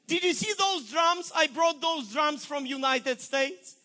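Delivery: rising, shouting protest; indignant outburst. Retold or imitated. Pastor protesting to God about his own money, indignant shout. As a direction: argue back at God, hurt and loud. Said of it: "And my pastor said".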